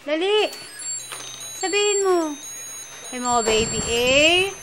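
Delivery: put-on talking to a baby. Shown as a demonstration. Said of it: "Kausapin mo si baby".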